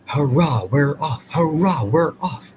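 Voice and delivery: excited little engine puffing out a cheer; gay puffing. A narrator's reading. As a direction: cheer it like a train setting off. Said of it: "puffed Thomas gaily".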